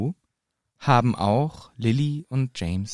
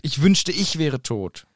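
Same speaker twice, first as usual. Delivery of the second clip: pained; 3 semitones higher, slower than usual. Acted. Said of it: "Und der Schmerz ist zu fühlen".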